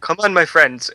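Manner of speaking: lightly voiced puppeteer with an uncertain accent; a rough character impression, accent unclear; light, amateur impression of a movie puppeteer; Toulon. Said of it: "I love your impression of Toulon".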